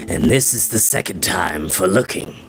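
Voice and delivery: low, grave Merriman voice; grave old wizard. Acted. Merriman to the children over the grail, low and grave. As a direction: speak like a solemn old mentor.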